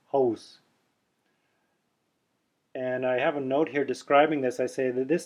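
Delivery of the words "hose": hose, throat open and dropped. Shown as a demonstration. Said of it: "It's a much more open throat".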